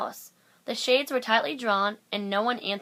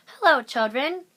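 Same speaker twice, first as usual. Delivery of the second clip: sweet greeting; 5 semitones higher, 6 dB louder than usual. A narrator's reading. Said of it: "someone said in a sweet voice".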